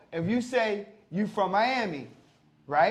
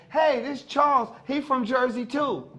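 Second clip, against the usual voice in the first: higher-pitched, eager acted greeting; upbeat introduction; 4 semitones higher than usual. Acquaintance introducing Charles to a fellow Jersey native, upbeat. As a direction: introduce a friend with a raised, lively voice.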